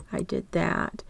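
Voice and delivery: soft unvoiced mutter repeating it; muttered to self. Real, not acted. Teacher checking off a step under her breath, muttered. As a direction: say it under your breath, to yourself.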